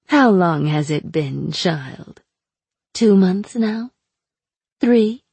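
sly, mocking captive witch; taunting sorceress voice. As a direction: purr it out like a cruel captor.

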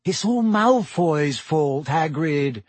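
heartfelt, deliberate insistence; earnest. A narrator's reading. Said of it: "said Hermione earnestly".

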